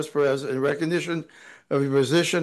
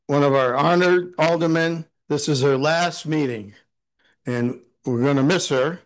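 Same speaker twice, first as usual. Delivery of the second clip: ordinary talk, nothing marked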